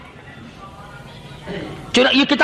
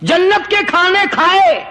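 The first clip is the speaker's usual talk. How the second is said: dog answers back; 4 semitones higher than usual. Acted. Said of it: "اللہ پاک نے کتے کو بھی زبان دی".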